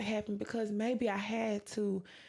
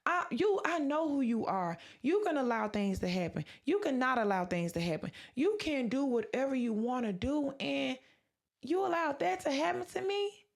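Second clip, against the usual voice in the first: mildly indignant, higher-pitched questioning of God; retold protest, rising higher toward the end; retold anger at God; 5 semitones higher than usual. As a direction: challenge God with hurt disbelief, retelling it. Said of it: "And I was angry at God".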